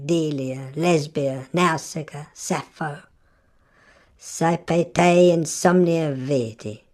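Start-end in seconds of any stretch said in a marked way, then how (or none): 4.2-6.8 posh gentleman. Retold or imitated. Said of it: "like a good Tory English gentleman".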